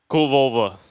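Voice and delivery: badly faked Eastern European, said firmly; poor Eastern European accent. Shown as a demonstration. Comedian passing off English as foreign words, in a rough Eastern European accent. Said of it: "my Eastern European accent isn't great".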